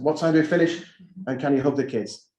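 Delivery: American twang, casual and unbothered; American accent. Retold or imitated. Head repeating the American recruit's questions, mock American accent. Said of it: "That's my American accent".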